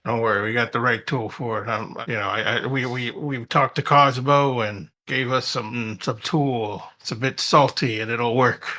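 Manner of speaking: low, quiet hardboiled mumble; noir detective. Acted. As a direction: play it like a tired gumshoe. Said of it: "trying to fit in the noir here".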